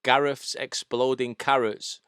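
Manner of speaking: slow, light Welsh accent; Welsh accent starter. Shown as a demonstration. Teaching co-host the starter phrase, lightly Welsh. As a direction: ease slowly into a hint of Welsh. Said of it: "wanna do a Welsh accent".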